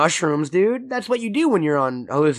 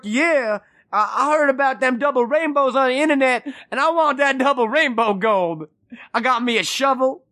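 hick gold hunter voice; 7 semitones higher than usual. Pretend. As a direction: play a goofy treasure-seeking hick. Playing rainbow gold hunter.

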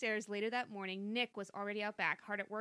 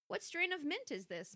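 put-on girlish voice; 8 semitones higher than usual. A narrator's reading. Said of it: "she asked".

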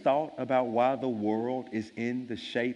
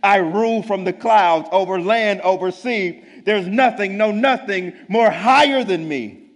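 howling king; 9 semitones higher, 13 dB louder than usual. Acted. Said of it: "howled the mighty King Yertle".

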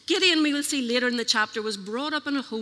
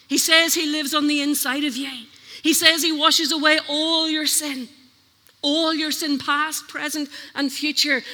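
preaching; 3 semitones higher, 5 dB louder than usual. Acted. Preaching at full force.

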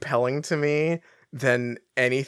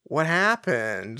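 mock-casual, drawn-out question at the end; feigned nonchalance; 3 semitones higher, 3 dB louder, much slower than usual. Harry feigning nonchalance about the breakup. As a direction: imitate someone playing it very casual. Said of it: "very nonchalantly being like".

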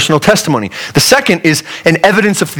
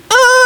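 mock tantrum cry. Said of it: "I and my sisters all used to do".

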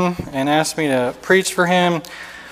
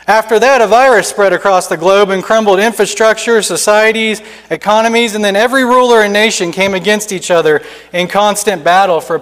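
lightly voiced stern survivor, a touch higher; a hint of a solemn stranger; grim survivor; 4 semitones higher, 4 dB louder than usual. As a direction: tell the ruin plainly and solemnly. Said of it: "he sternly replies".

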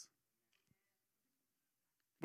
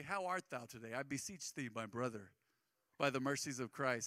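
lightly voiced, mock-archaic preacher, a bit lower and softer; mock King James speech; 5 semitones lower, 4 dB quieter than usual. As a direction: tease the old Bible English in a hushed, pious lilt. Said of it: "We don't talk like that".

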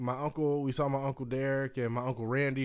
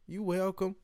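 higher-voiced Southern hospitality; Southern accent; 6 semitones higher than usual. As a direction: imitate a sweet Southern woman's accent. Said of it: "why I love Southern accents".

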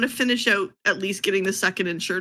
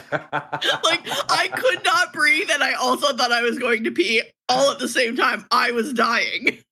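laughing; 4 semitones higher than usual. Real, not acted. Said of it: "you guys had me laughing so hard".

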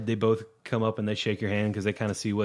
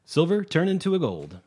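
hustler gnome; 2 semitones higher than usual. Acted. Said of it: "shows the queen again".

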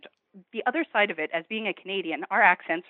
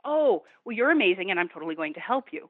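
mild mock amazement; imitated admiration. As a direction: act out impressed delight. Voices admiring people reacting to Canadians.

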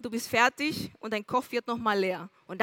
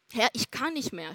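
groaning. A narrator's reading. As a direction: let it sink out like a tired groan. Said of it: "stöhnte er". (leise, erschöpft gestöhnt)

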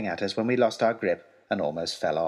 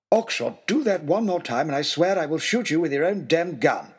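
seething threat; 6 semitones higher than usual. Acted. Lord Daunt threatening to shoot Oxshott, seething. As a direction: threaten him in earnest.

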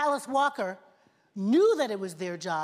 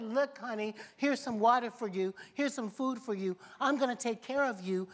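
tender reassurance. Retold or imitated. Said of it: "God said".

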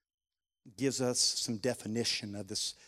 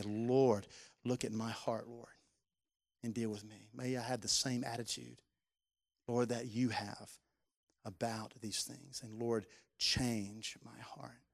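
quiet prayer; 3 semitones lower, 4 dB quieter, slower than usual. Retold or imitated. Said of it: "before Jesus, say".

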